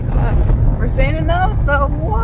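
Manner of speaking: talking while bouncing in a car; on a bumpy road. Real, not acted. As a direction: voice jolted by bumps. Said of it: "This road is so bumpy".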